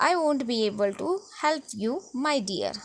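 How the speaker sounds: mild mock sweetness on my dear; lightly sneering, put-on politeness; a hint of a haughty classmate; exaggerated accent. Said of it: "replied Rima with an exaggerated accent".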